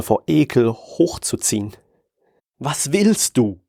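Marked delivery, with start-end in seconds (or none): 2.6-3.6 slow words pressed through clenched teeth. Acted. Hans to the tentacle man, through clenched teeth. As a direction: grit your teeth and push it out slowly. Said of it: "zwischen zusammengebissenen Zähnen hervor".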